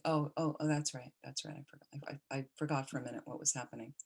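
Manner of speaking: quiet, trailing recollection; hushed, mildly sheepish recall; retold soft realization. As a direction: murmur it as if just remembering. Voices patient remembering, reassured.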